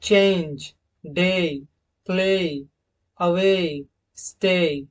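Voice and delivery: long ए glide in each; model words. Shown as a demonstration. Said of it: "ए का निकल रहा है".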